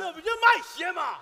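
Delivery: incredulous shout. Real, not acted. Catching his partner's absurd claim, a high incredulous shout. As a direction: yell out the objection.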